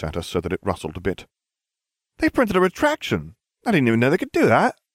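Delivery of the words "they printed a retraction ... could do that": excited. A narrator's reading. Girl announces surprising news.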